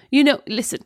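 lightly voiced helpless mother; halting mock excuses, lightly put on; imitating Mum. Friend mimics caller sounding like Mum, helpless excuses. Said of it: "that's why I'm doing her voice".

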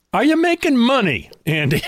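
high, playful, laughing as he asks; laughing question. Real, not acted. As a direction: tease him with a grin in the voice. Host teasing with direct question.

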